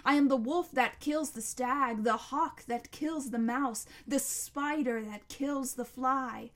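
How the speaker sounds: loud, surging monster litany; roaring monster. A narrator's reading. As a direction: hurl out each claim at full volume. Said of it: "still roaring".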